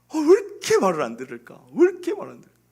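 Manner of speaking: loud, retold nagging complaint; exasperated parent. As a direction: act out a fed-up parent, rising in pitch.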